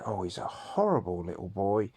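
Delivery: mock gossiping dinner lady; lightly voiced spiteful dinner lady. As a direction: sneer like a school gossip. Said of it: "And they said".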